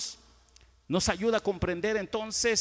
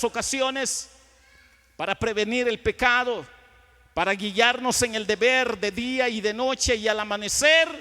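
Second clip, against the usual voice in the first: loud, driving pulpit oratory; forceful preaching; 4 semitones higher, 7 dB louder than usual. Real, not acted. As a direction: proclaim it to the whole congregation. (predicación a plena voz)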